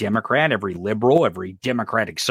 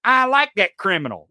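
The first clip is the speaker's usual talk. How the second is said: mocking and gleeful; 5 semitones higher than usual. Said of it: "he told the Associated Press".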